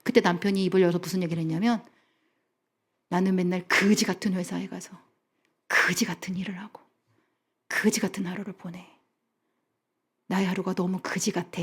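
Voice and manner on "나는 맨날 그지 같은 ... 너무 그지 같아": weary husband. Retold or imitated. Tired husband finally opens up.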